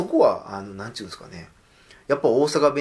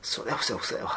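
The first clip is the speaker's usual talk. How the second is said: Kansai retort. Retold or imitated. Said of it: "って三回言うんですけど".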